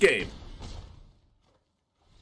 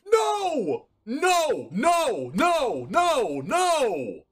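repeated shouting; much slower than usual. Real, not acted. Repeated no's, pitch falling.

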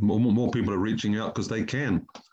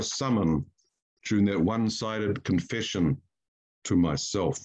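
slow, measured poem reading with long pauses; poetry reading. Acted. Poet reading his elegy for his son, slow and measured.

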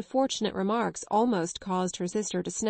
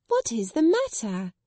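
cried; 3 semitones higher, 4 dB louder than usual. Acted. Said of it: "cried two or three voices".

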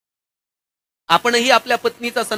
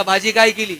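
mild call from the doorway. Retold or imitated. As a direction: call casually toward the kitchen. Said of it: "यानं आवाज दिला".

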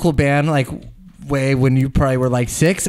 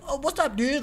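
friendly greeting; 11 semitones higher, 8 dB quieter than usual. Retold or imitated. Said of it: "the nicest".

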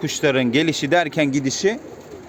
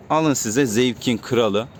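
drawn-out catchphrase; 3 semitones lower, much slower than usual. Acted. Catchphrase repeated.

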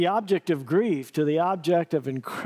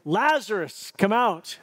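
calling Lazarus, higher and a touch louder; a raised summons to the dead; 4 semitones higher, slower than usual. Acted. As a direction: call him out of the tomb. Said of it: "Jesus called out in a loud voice".

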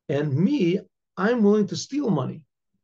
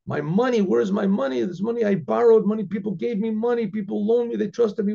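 half-hearted mock scream, pitched higher; a mild, higher-pitched mock yell for the lost money; retold scream; 4 semitones higher than usual. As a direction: raise the voice, playing the robbed man's panic. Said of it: "a tremendous scream came out".

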